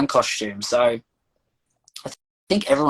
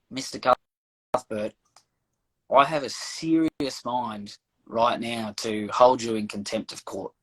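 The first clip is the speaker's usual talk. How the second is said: slow, measured courtroom warning, lightly acted; stern magistrate; 2 semitones lower, slower than usual. Magistrate to the man in the clown costume, lightly voiced stern warning. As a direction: imitate a judge weighing each word slowly. Magistrate warns him in retold hearing.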